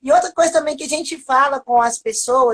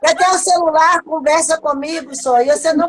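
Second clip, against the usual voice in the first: exasperated outburst; 3 semitones higher than usual. Retold or imitated. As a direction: burst out in frustration at him. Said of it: "Eu falei".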